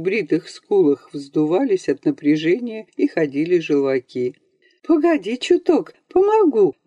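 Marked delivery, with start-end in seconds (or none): 4.8-6.7 much higher strained call on "помогу"; mother calling out, strained; strained cry. A narrator's reading. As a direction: cry out to him, held back. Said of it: "крикнула сдавленно мать".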